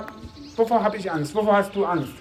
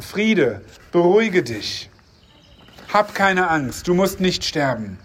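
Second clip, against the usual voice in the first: measured Bible reading with a light touch of voiced dialogue; scripture reading. Preacher reading the Bible passage before the sermon, steady reading voice. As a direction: read the Gideon story steadily to the congregation. Reads Gideon passage aloud.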